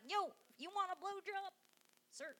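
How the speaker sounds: badly faked hillbilly twang; terrible hillbilly accent. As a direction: play it as a hammy hillbilly. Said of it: "That's a terrible hillbilly accent".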